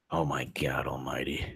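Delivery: breathless stunned whisper. Real, not acted. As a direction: whisper it under your breath in disbelief. Stunned aside while reading texts.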